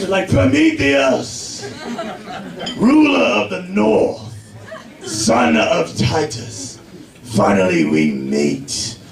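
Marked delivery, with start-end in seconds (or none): 0.3-6.8 long, drawn-out battlefield call; epic warrior yell. Acted. Leader calling his rival across the battlefield, grand slow yell. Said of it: "they yell out each other's names". 7.2-9.0 very low, slow, portentous delivery; epic warrior challenge. Acted. Leader greeting his rival before battle, deep slow grandeur. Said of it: "they yell out each other's names".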